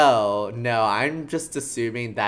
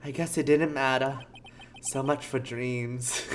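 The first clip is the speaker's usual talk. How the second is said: sleepy New Yorker. Acted. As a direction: give it a mild, sleepy New York lilt. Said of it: "sleepy New Yorker".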